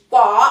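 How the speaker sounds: "Wo" loud and drawn out in Mandarin third tone. Shown as a demonstration. Teacher showing the Mandarin word, "Wo" in third tone. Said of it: "W, O y el tercer tono".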